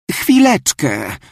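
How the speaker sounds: slow polite grandma; a drawn-out courteous reply. Acted. Grandmother answers the girl slowly and politely. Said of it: "rzekła uprzejmie babiczka".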